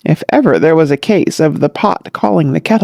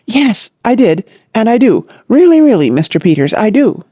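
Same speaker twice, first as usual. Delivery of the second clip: earnest; 6 semitones higher than usual. Acted. Billy declares love earnestly.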